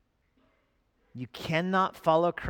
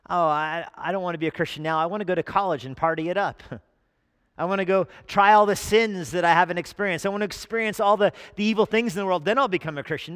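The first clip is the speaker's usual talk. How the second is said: mock party student; 3 semitones higher, 4 dB louder, faster than usual. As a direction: play a giddy college kid dodging faith. Mocking worldly student voice.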